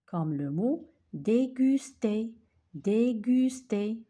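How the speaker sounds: déguster slow, the gu marked; slow down on déguster, stress gu; model word. Shown as a demonstration. Teacher drilling déguster for the class. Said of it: "G avec U nous donne gu".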